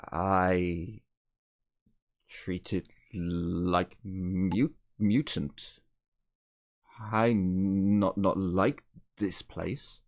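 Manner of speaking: slow broken English with stumbles; confused, halting speaker. Acted. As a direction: grope slowly for each word, confused. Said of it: "he looks a little bit shocked and confused".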